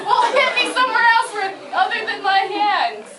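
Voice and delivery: laughing. Real, not acted. Dodging a friend's playful hits, laughing protest. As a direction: squeal it out between laughs.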